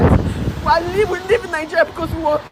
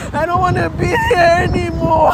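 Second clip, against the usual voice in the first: crying; 3 semitones higher than usual. Real, not acted. Breaking down about life abroad.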